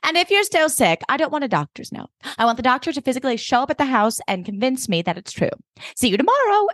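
crisp, bright send-off; imperious Emily. Retold or imitated. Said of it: "And she's like".

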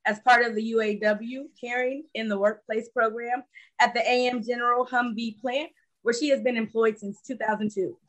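reading out a guest's biography; measured, formal read-aloud introduction; prepared introduction read. Real, not acted. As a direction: read it like a written tribute.

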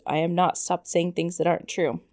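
lightly voiced sulky teen; a hint of an arguing teenager. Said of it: "I went to that teenager voice".

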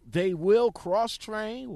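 slow, loud doubtful read; skeptical emphasis. Real, not acted. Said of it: "We'll find out about that".

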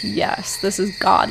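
soft, almost whispered "Yes, this is God"; hushed awe. Retold or imitated. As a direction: breathe it out in quiet wonder. Imagined inner reaction to world.

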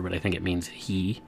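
ordinary talk, nothing marked

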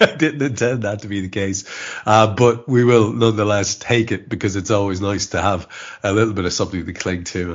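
congested, bunged-up voice; blocked nose. Real, not acted. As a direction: talk through a heavy head cold. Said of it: "I'm incredibly congested".

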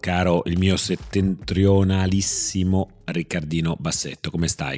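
echoey room sound. Real, not acted. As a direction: voice with room echo. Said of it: "Sentirete un po' di eco".

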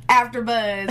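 AfterBuzz with a rolled, trilled r. Shown as a demonstration. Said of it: "Little rolling your R's".

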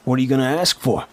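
high, quick, prying voice; pry at him smugly, a bit fast; smug official. Acted. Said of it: "A smug, high-ranking official".

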